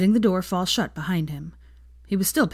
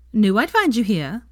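louder, smug, a little winded; smug and breathless; 5 semitones higher, 6 dB louder than usual. A narrator's reading. Veronica bursting in on the pair, smug and breathless. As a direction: crow that you knew it, out of breath. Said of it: "she said smugly, sounding rather breathless".

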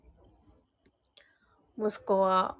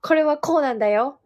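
higher, louder mimicry of an eager explainer; over-explaining child imitation; 4 semitones higher, 5 dB louder than usual. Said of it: "すっごい説明したがる". (説明したがりな子の高めで強い物まね)

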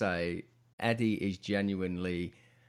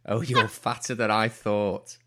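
laughing fan quote; 3 dB louder, slower than usual. Retold or imitated. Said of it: "then saying".

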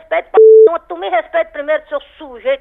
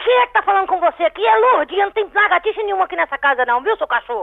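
high-pitched angry rebuke; real fury; 5 semitones higher than usual. Real, not acted. Woman denying the nickname to a repeat caller, furious. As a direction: set the caller straight, pitch raised sharply. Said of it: "mulher braba".

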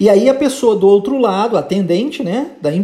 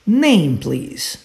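model for repetition. Shown as a demonstration. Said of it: "So, let's repeat".

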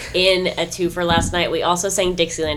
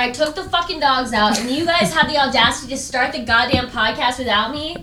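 mock outrage; 5 semitones higher than usual. Late arrival scolding the group.

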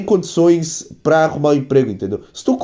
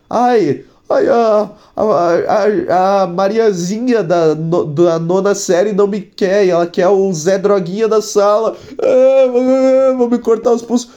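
whiny teen mock; 3 semitones higher, slower than usual. Mocking a whiny teenager.

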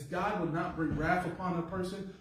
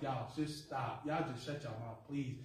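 weary Job; 6 dB quieter than usual. Acted. Exasperated Job to friends.

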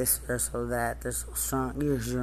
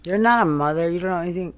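angry shout; 3 semitones higher, 5 dB louder, faster than usual. Real, not acted. Angry rant at officials.

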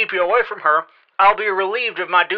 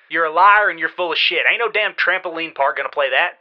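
angry. Acted. Aunt berates nephew on phone.

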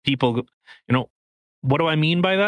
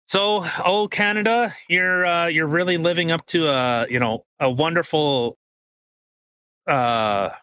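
sarcastic. Acted. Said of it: "I can't even be satirical".

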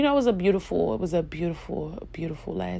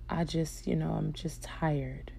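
weary mother; 6 dB quieter than usual. Retold or imitated. Retold weary mother in hospital.

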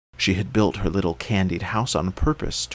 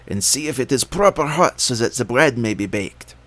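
coaxing witch; 4 semitones higher, 5 dB louder than usual. A narrator's reading. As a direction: lure her in like a witch. Witch speaks.

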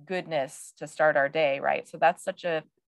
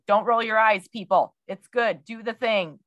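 playful scolding; 4 semitones higher, 4 dB louder than usual. Retold or imitated. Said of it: "which I say a lot".

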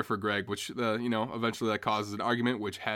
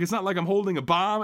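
high, loud indignant snap; exasperated outburst; 8 semitones higher, 4 dB louder than usual. Retold or imitated. Greg snapping at passengers, high and loud. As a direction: fling it out, fed up. Greg still ranting at airport.

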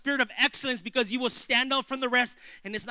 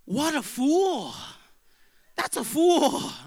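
scornful verdict; 5 semitones higher, slower than usual. Retold or imitated. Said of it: "I'm like".

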